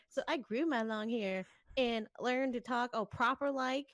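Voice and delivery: lightly imitated Southern belle accent; Southern drawl. Retelling the girl scolding Raku for forgetting her, mild Southern accent. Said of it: "I imagine a Southern drawl".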